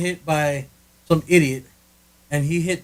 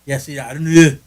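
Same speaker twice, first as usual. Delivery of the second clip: attempted Australian; 9 dB louder than usual. Shown as a demonstration. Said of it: "That doesn't sound Australian".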